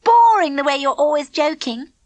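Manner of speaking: high, prissy and smug; smug Elaine. A narrator's reading. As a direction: lord it over them with a smirk.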